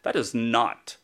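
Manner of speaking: slow, low, dry reply; patient calmly telling the nurse off, slow and dry; stoic deadpan. Retold or imitated. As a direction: keep it flat and controlled. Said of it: "stoic, self-controlled way".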